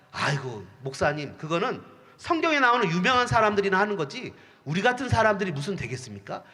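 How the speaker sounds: lightly voiced doubting believer; a hint of a whiny protest to the pastor; doubting churchgoer. Imagined doubtful churchgoer objects.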